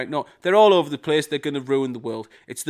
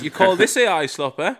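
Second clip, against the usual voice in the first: higher, louder hint of a comic-book villain; mock villain threat; 6 semitones higher, 5 dB louder than usual. Rajesh in his dorm answering critics, mock villain threat. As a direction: lightly ham up the villain's challenge. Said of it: "he's turned into, like, a fucking Spider-Man villain".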